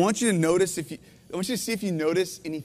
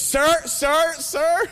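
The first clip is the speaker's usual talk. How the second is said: louder, higher brush-off, sir sir sir; dismissive lawyer; 7 semitones higher, 4 dB louder, much slower than usual. Retold or imitated. Lawyer brushing off a pleading father, louder. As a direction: fob him off like a tired lawyer. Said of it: "you get one of those".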